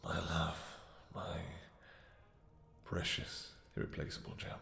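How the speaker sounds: soft whisper, barely voiced; whispered endearments. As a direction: breathe the words close to the ear.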